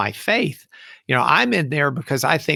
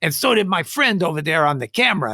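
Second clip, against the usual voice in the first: imitated Hispanic accent, pitched up; higher, put-on Hispanic voice; 6 semitones higher than usual. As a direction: play a little fella with a Hispanic accent. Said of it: "real short little Hispanic fella".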